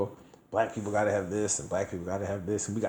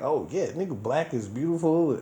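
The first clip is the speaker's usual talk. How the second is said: mock fervent activist; 6 semitones higher than usual. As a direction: play your zealous former self, stretching the slogan. Voices his former pro-black self.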